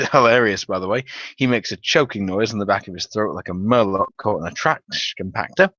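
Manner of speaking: normal talking voice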